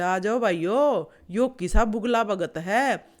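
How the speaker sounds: loud summons to the crowd; calling out. Acted. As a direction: raise your voice to rally everyone. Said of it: "केकड़ा ने मारा रुका".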